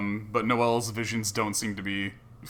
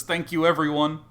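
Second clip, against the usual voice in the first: tiny tearful pixie voice; high, bright and tearful thanks; 6 semitones higher, 6 dB louder than usual. Acted. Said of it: "Chirp looks at your group ... and says".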